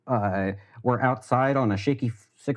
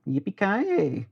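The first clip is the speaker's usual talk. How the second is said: high, drawn-out cowboy holler; put-on cowboy voice; 9 semitones higher, much slower than usual. Streamer playing all-American for chat, drawn-out cowboy cry. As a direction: stretch it out high like a hammy cowboy. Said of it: "I didn't like that voice".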